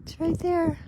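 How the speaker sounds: high, coaxing pet-talk; encouraging coaxing. Real, not acted. Coaxing the animal along.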